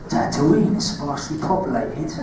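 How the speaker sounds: put-on Cockney accent, villain line; quiet Cockney Darth Maul. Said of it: "in your Cockney accent".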